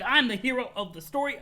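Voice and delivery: John boasting to himself, mock hyped; hyped hero. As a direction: play it up as the eager hero. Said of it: "He's like".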